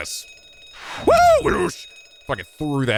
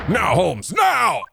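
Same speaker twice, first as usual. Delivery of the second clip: urgent shout; 8 semitones higher, much slower than usual. Acted. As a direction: hurry him, shout it. Urging Holmes to act now.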